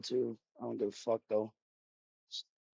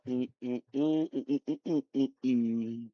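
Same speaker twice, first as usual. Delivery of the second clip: hummed sound effect. Shown as a demonstration. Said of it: "hitting the new sound effect".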